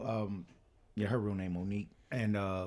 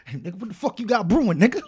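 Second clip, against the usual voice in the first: higher, quicker movie dialogue; movie scene impression; 8 semitones higher, 6 dB louder, faster than usual. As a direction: re-enact the line, lifting the pitch.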